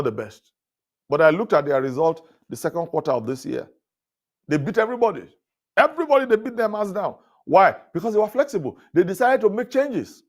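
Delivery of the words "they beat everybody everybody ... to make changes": much higher, rising preacher excitement; soaring pulpit enthusiasm; excited. Real, not acted. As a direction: lift it up, marveling at the result. Preacher builds excitement about Walmart.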